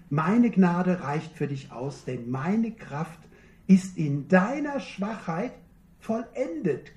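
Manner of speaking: slow, assuring, with pauses between phrases; slow reassuring verse. Acted. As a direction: promise it calmly, phrase by phrase. Verse spoken slowly, reassuring. (langsam und zuversichtlich zugesprochen)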